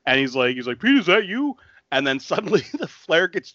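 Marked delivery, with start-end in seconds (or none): 0.8-1.6 calling out. Retold or imitated. Retelling movie, calling out.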